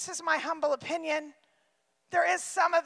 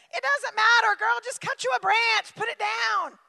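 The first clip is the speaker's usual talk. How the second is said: higher, casual, brushing it off; breezy crowd member; 5 semitones higher than usual. Pretend. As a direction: shrug and say just join in. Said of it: "second crowd member answering".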